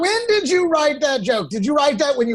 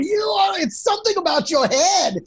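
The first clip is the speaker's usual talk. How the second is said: excited disbelief; 6 semitones higher than usual. Real, not acted. Friend ranting in amused disbelief.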